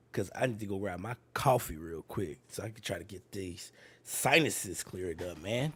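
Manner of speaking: stuffy nose from a cold; blocked nose while talking; congested. Real, not acted. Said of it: "I'm super congested".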